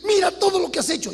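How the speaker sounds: high, crying mother's plea; weeping plea to a wayward son; tearful mother. Retold or imitated. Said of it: "Y estaba botando lágrimas".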